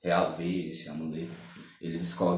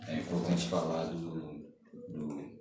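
trailing off; slower than usual. Real, not acted. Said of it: "eu esqueci o que eu ia falar".

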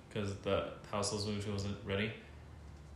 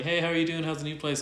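higher, louder chatty mom voice; friendly mom; 6 semitones higher, 4 dB louder than usual. Retold or imitated. Landlady phoning her old tenant, friendly. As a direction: imitate a friendly mom checking in. Mom's friendly phone greeting, retold.

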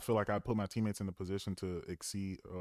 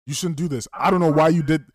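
Fabe; 7 semitones higher, 12 dB louder than usual. Retold or imitated. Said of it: "when Fabe says".

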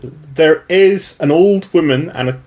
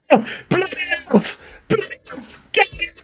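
high strained cry of an angry townsman; angry brawler; 6 dB quieter than usual. Acted. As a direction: yell it like a furious local spotting the elf. GM voices angry NPC in brawl.

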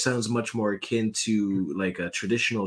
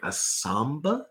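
confused; 4 semitones higher than usual. Retold or imitated. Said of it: "And I'm like".

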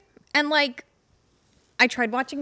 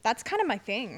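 mouth full; 2 semitones lower, 4 dB quieter than usual. Real, not acted. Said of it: "Sorry, I'm eating".

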